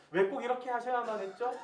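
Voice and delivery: imitated indignant demand for a reason; retold challenging question. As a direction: question God back, acting out the complaint. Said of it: "라고 반문할 때가 참 많아요".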